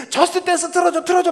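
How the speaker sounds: imitating his daughter's tantrum; whiny little girl. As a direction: squeal it like a cranky child. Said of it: "승질을 내는 거예요".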